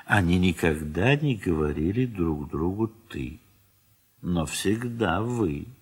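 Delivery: normal talking voice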